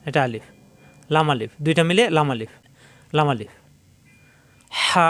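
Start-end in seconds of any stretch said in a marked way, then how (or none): 4.7-5.1 হা pressed from deep in the throat; throaty Arabic ha. Shown as a demonstration. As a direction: squeeze the throat on হা. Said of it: "কণ্ঠনালী চাপ দিয়ে".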